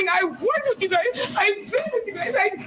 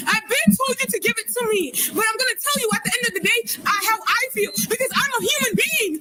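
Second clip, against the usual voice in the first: raised, sharp, high insistent voice; shouting; 4 semitones higher than usual. Real, not acted. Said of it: "stop shouting at me".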